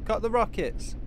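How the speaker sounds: shouted order. Acted. Commander ordering the pilots during landing, loud shout. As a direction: yell it over the roaring jets.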